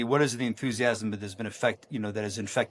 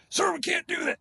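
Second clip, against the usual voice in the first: much higher, protesting sergeant major; doubtful sergeant major. Retold or imitated. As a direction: object in disbelief.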